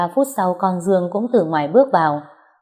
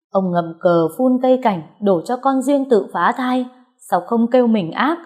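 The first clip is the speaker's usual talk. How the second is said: mocking; 4 semitones higher than usual. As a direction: throw the blame back with scorn. Wife mocking husband. (vợ mỉa mai chồng, giọng cao, chậm)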